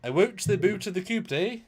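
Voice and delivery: high Minnesotan-Canadian caricature with long oo; mock Minnesotan accent. Shown as a demonstration. Co-host mimicking people from Minnesota, high mock Minnesotan accent. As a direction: play up the Canadian oo sounds and final eh. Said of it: "People from Minnesota".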